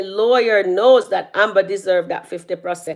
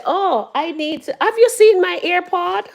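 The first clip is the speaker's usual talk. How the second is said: imitating Ben; 10 semitones higher than usual. Voicing Ben in the scene.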